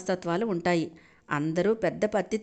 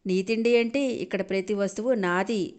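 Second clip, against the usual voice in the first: haughtily. Acted. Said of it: "అని తల బిరుసుగా అంది నీరజ".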